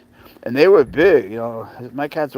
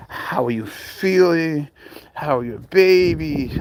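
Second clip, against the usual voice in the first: mock sweet fan; 3 semitones higher, slower than usual. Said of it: "They'll ask for a selfie".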